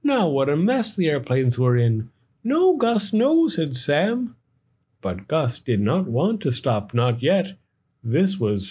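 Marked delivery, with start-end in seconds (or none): 2.4-3.5 high, urgent "no"; pleading call. Acted. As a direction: beg him to stop. Sam pleading.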